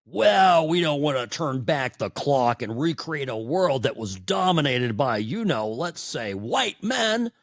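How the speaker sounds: a lightly voiced, preachy mock of a Democrat. Host mocking Democrat boomers for his listeners, a light parody. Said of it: "broken Democrat boomers like Hillary Clinton".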